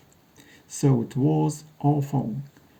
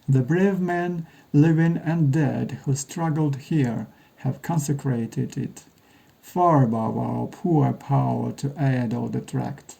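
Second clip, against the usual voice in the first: sharp, clear recitation. Acted. The speaker recites Lincoln's address where it was given, sharp clear oratory. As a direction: open the speech as if to a crowd. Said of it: "Jim's voice is sharp and clear".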